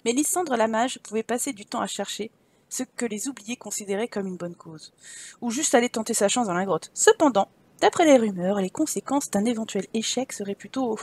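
measured storybook narrator; story narration. Acted. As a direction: read the game text as a tale. Reads game story aloud. (narration de conte posée)

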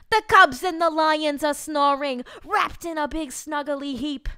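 loud hammed-up bedtime storyteller; exasperated parent declaiming verse in a put-on voice; Judith. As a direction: build from grand storytelling to fed-up ordering. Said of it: "reading this in my Judith voice".

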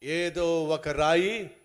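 loud, emphatic preaching; loud preaching, with the stone line said very slowly; thundering warning. Acted. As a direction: warn them God will throw a stone.

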